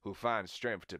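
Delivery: measured Southern American voice; Southern American accent. Acted. Repeating the hero quote, Southern American accent. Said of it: "S-, Southern American".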